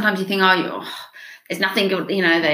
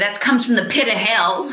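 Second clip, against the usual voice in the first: long, stretched-out put-on Southern drawl. Showing how to make light of lies children believe: southern drawl. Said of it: "put on that southern drawl and say".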